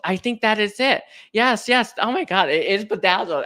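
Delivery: eureka, delighted relief; excited realization. Real, not acted. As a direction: burst out as the word finally comes. Finally finds the forgotten word.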